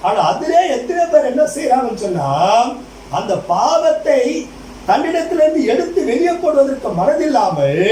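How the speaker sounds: stirring pulpit delivery; preaching. Acted. Preaches with raised, drawn-out delivery.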